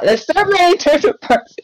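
high, slow astonished cry; surprised. Real, not acted. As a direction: gasp out in disbelief at the crowd. Surprised reading the story.

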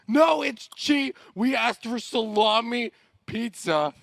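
high, slow, laughing through every word; helpless with laughter; real laugh-cry; laughing complaint. Real, not acted. Laughing at wrong pizza.

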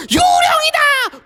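high, loud ghost shriek; terrified shout. Acted. Disciples seeing Jesus on the water, high fearful shout. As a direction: shriek in fright.

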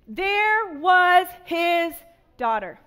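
drawn-out build, then drop on daughter; slow down and hang before daughter; dramatic pause. Acted.

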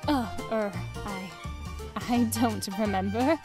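halting, evasive mumbled start; awkward hesitation. Acted. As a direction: stall nervously before answering. Mother awkwardly dodges question.

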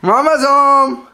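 high, drawn-out singsong call; excited announcement. Real, not acted. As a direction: call it out high to the little one. Calling out on mama's arrival.

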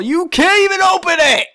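high, loud disbelieving scoff; scoffing outcry. Real, not acted. Player scoffs at the peddler's useless souvenir, loud. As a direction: call the gift useless.

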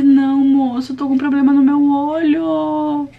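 calm him down, slowly and firmly; reassuring the Uber driver about her swollen eye, slow and firm. Retold or imitated. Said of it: "Calmar o cara".

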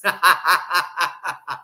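big rhythmic belly laugh; loud laugh. Real, not acted. Speaker laughing after the marriage joke, loud laugh. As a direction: burst out laughing at your own joke.

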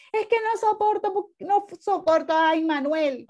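queja aguda de niño, algo exagerada; niño quejándose. Retold or imitated. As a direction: imita a un niño que no soporta al hermano. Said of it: "si tú vas erróneamente a decirle a la mamá". (niño que se queja a la mamá, queja aguda imitada)

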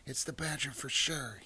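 high-pitched little cry of alarm; alarmed mouse. A narrator's reading. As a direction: read it as a startled mouse. Startled mouse in story.

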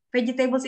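"Vegetables" read as veh-jee-TAY-buls; wrong pronunciation. Shown as a demonstration. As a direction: sound out "table" inside "Vegetables". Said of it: "adalah salah cara bacanya". ("Vegetables" salah baca, fe-ji-TÉ-bels)

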